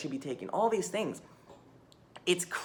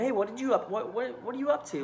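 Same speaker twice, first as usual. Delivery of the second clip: high, bright mock asker; mock friendly asker; 7 semitones higher than usual. People asking what she's up to, a high mock-friendly voice. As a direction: imitate a chirpy acquaintance. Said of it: "People are like".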